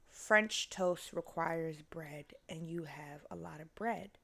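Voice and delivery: slow, soft whisper to herself; hushed reasoning. Retold or imitated. Telling herself she has bread, in a slow whisper. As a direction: lay out the obvious in a secret whisper.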